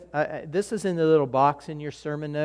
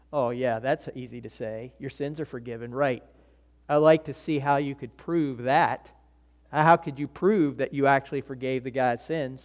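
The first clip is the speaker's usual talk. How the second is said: sneering mumble; 3 semitones lower than usual. Retold or imitated. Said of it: "they're saying".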